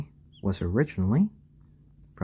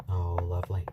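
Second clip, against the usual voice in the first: hushed admiring whisper; 3 semitones lower than usual. Real, not acted. Admiring the chick's feathers, whispered.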